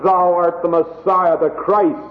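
bold confession. Retold or imitated. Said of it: "Now in the weakness of, of the flesh".

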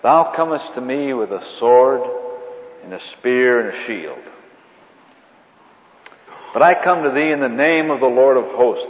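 loud, ringing King James defiance; mock biblical prophet. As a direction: thunder it like a warrior prophet. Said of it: "David says to the Philistine".

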